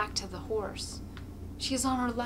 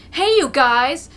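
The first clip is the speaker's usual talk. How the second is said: loud, higher call; rowdy shout; 6 semitones higher, 12 dB louder, slower than usual. A narrator's reading. A man in the wagon calling to the crowd, shouting. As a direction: holler across to the crowd. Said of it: "somebody shouts from the wagon".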